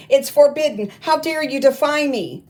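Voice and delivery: high, loud enraged roar; furious roar. Acted. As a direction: roar it in outrage. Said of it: "she roared".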